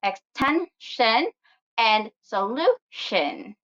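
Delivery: "extension and solution", slowly, stressing TEN and LU; stress on second-to-last syllable. Shown as a demonstration. Teacher demonstrates the rule, slow stressed TEN and LU in "extension and solution". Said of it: "stressed on the second to the last syllable".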